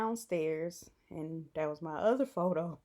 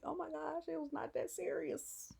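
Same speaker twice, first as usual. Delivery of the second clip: flustered; 10 semitones higher, 5 dB quieter than usual. Retold or imitated. Embarrassed reply, high voice.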